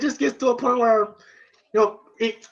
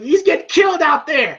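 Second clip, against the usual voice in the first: higher, exasperated cry; retold alarm; 5 semitones higher than usual. Corner watching Rocky take punches, mock alarm. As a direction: imitate a worried cornerman.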